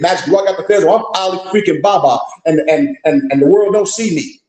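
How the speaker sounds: lightly voiced naive believer; mock them gently; mock fez wearer. Mocking brothers who think a fez makes them magic, sarcastic. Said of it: "They think".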